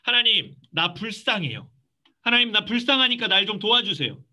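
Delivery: demonstrated earnest prayer; frank plea. Shown as a demonstration. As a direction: plead openly, calling out at the start. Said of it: "솔직하게 얘기하는 겁니다".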